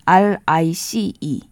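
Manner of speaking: each letter slow and separate; spelling it out. Shown as a demonstration. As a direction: spell out R-I-C-E slowly. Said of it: "라이스".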